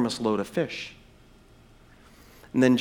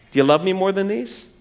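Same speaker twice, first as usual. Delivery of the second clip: pressing question; 3 semitones higher than usual. Retold or imitated. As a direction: put the question to him squarely. Jesus's question repeated, more pressing.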